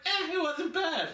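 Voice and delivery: mock grudging brother, pitched high and drawn out slowly; grudging older brother. Older brother admitting the anime movie was okay, mock grudging high voice. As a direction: imitate a reluctant brother admitting he liked it. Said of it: "even he was like".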